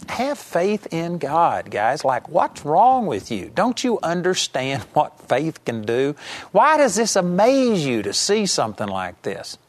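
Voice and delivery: slow, gently chiding "have faith in God, guys"; a touch of teasing disbelief at the disciples; mild exasperated Jesus. Retold or imitated. Preacher voicing Jesus scolding his puzzled disciples, lightly exasperated. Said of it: "Jesus was something like".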